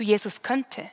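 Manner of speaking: a hesitant, deflated maybe; doubtful. Shown as a demonstration. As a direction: let the faith drain out of it.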